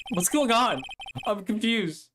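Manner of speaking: confused. Acted. Voicing confused protagonist.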